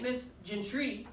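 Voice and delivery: Gentry said softly and slowly, GEN not stressed; misstressed Gentry, slow and soft; wrong stress demo. Shown as a demonstration. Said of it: "You don't say".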